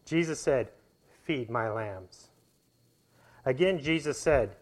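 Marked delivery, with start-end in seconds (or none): 1.2-2.3 gentle command. Acted. Jesus gently commands Peter.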